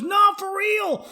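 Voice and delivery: slow, high, loud protest; imitated insistence. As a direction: insist loudly, drawing it out. Acted insistent reply.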